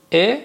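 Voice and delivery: «ا» as a short "e"; basic "e" sound. Shown as a demonstration. Teacher repeats the original sound for students, "e". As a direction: say «ا» as a mid front "e", like bed. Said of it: "ا اصلش ا هست".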